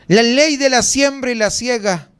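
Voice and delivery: slow, measured preacher's proclamation; prosperity preacher. Retold or imitated. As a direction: announce it grandly, imitating a smooth-talking preacher. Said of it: "no tengo tanta labia como ellos".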